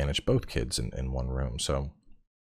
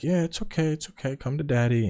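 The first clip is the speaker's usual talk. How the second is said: soothing; 8 semitones higher than usual. Retold or imitated. Soothing his crying toddler.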